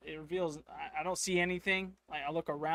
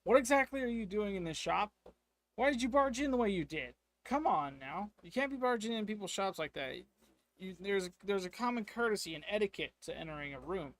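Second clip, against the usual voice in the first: higher, louder indignant shopkeeper; merchant exclaims; 5 semitones higher, 4 dB louder than usual. Acted. Shopkeeper scolds the intruder who crashed in, indignant and raised. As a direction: scold the intruder from behind the counter. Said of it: "He exclaims".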